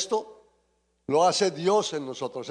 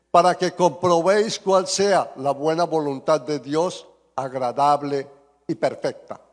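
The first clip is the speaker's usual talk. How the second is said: loud, measured scripture reading; lectura bíblica; 4 dB louder than usual. Real, not acted. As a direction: proclaim the verse to a congregation. Reads scripture aloud to congregation. (lectura solemne de la Biblia en voz fuerte)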